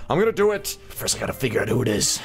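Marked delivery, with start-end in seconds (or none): 0.1-0.7 pumped up. Real, not acted. Repeat pumped up.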